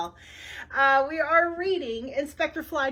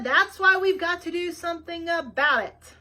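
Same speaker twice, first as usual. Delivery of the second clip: louder, raised so she hears through earmuffs; repeating to Nina wearing earmuffs, raised voice; 5 semitones higher, 5 dB louder than usual. A narrator's reading. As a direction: say it again, louder, over the earmuffs. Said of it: "I heard your loud grating voice".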